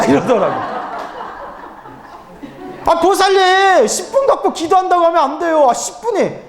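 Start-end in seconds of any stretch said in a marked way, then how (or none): 2.8-6.4 laughing in disbelief. Real, not acted. Monk laughing at a devotee's ten minutes of prayer, disbelieving laugh. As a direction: laugh it out at the tiny number.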